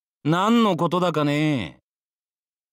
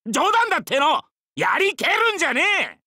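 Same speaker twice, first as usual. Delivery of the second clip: flustered denial; 13 semitones higher, faster than usual. Acted.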